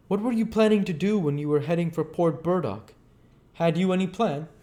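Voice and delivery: cautious doctor probing gently; lightly voiced, careful questioner; a hint of wary Kemp. Kemp asks.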